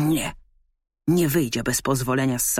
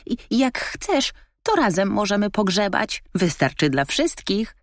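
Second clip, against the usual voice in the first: raccoon murmuring; 6 semitones higher than usual. A narrator's reading. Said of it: "mruknęło".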